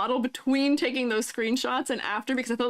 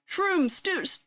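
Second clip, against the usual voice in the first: tongue-twister attempt; 5 semitones higher, slower than usual. Shown as a demonstration. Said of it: "Say that five times fast".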